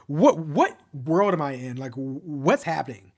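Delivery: lightly acted bewilderment with halting repeats; mild mock shock. Ilya hears of Shane dating, mildly stunned. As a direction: imitate someone stunned, stumbling over the words. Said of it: "he is kind of in shock".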